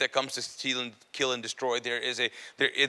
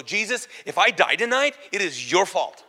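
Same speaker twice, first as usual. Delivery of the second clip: retold anger; 4 semitones higher, 3 dB louder than usual. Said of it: "So I get angry".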